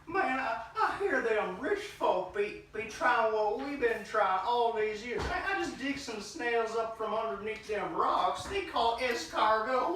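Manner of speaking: southern twang. Acted. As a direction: play a hillbilly with a Southern twang. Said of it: "like, a southern twang now".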